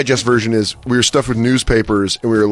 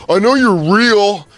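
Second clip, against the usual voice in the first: put-on taunting kid; 9 semitones higher, slower than usual. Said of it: "be like".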